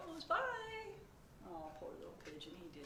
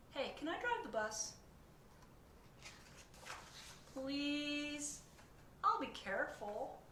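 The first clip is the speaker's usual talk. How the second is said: higher, begging pigeon voice; pleading pigeon; 6 semitones higher, 4 dB louder, slower than usual. Acted. Pigeon begs the reader to drive, high and pleading. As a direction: wheedle like a cheeky pigeon.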